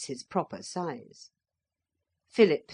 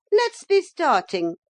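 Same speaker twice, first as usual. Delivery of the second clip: high, loud impatient call; bossy motor lady; 12 semitones higher, 8 dB louder than usual. A narrator's reading. Motor lady to the party, high and bossy. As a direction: hurry everyone along.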